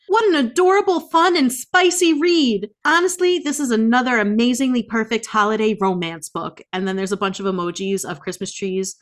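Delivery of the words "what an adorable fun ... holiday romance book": high, loud, gushing fan voice; gushing reviewer. Retold or imitated. Reading a five-star review aloud, mock gushing high and loud. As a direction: squeal it like an overexcited fan. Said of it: "this person said".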